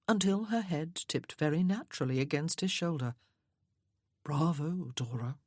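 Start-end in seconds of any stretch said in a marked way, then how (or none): 4.2-5.4 softly. A narrator's reading. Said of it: "he said softly".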